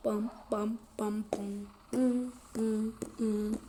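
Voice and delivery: rhythmic bam-boom noises; imitated bass thumps. Gamer mimics the car's bass, rhythmic thumps. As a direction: thump out a beat by mouth.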